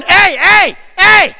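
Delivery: high, loud hey calls down the hallway; teacher greeting kids loudly in the hall. Retold or imitated. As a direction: holler hellos up high like the old shop teacher. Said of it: "you could hear Mister Radovich going".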